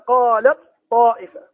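قالت طائفة slowly with the ta merged into the heavy ta; slow Quranic recitation with assimilation. Shown as a demonstration. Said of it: "في نحو قوله تعالى".

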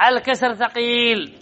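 slow, soft, stretched-out ثقيل; drawn-out emphasis. Shown as a demonstration. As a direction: draw out the long vowel in ثقيل, softly. Illustrates that kasra is heavy.

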